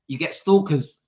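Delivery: real laughing fit after the words; cracking up at own line; helpless laughter. Real, not acted. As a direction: deliver it, then fall apart laughing. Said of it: "Oh, I'm so sorry".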